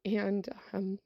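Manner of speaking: fighting tears while finishing the story; real emotion. Real, not acted. Teacher recalling the boy's thanks, choked up for real. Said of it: "this is where I get a little emotional".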